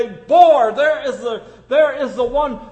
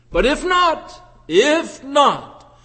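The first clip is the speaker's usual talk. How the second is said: pleading; 5 semitones higher, 4 dB louder, much slower than usual. Retold or imitated. Moses pleads with God.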